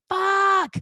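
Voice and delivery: high, drawn-out mock cry; retold panicked curse. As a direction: let out a long, high-pitched curse. Acts out panic at missed flight.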